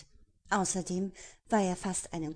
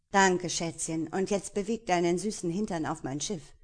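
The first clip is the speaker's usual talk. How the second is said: smug pirate; 4 dB louder than usual. Acted. Pirate voiced in the story.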